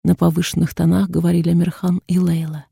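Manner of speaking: usual speaking voice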